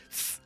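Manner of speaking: sharp unvoiced "tss" hiss; short quiet correcting hiss; hiss at the dog. Shown as a demonstration. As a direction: hiss like a cat to stop the jumping. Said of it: "like, literally hiss at him".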